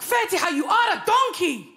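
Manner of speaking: lightly voiced Arab mum scolding; a hint of a stern immigrant mother; mum's accent. Comic imitating her mum cussing her, light accented scolding. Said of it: "My mum's like".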